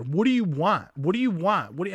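mild, repeated mock demand; half-hearted imitation of a man yelling at her; imitated yelling. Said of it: "he's, like, just yelling at her".

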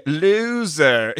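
high mocking yell of loser; yelled taunt. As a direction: jeer it out loud. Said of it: "He was yelling that out too".

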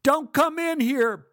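put-on high, slow, loud kid yell; child yelling. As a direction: hold the door and yell him off. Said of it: "Buddy yelled".

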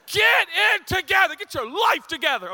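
loud high barked command; coach yelling. Retold or imitated. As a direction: yell it like a furious coach. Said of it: "someone to scream at me in the face".

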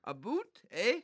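mock Canadian accent saying 'a boot'; Canadian accent, soft and quick. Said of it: "what's your best Canadian accent".

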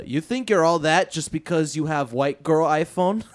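barely-there fake Swedish accent; badly faked angry Swede accent; terrible Swedish accent. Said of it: "I'm gonna do a terrible version".

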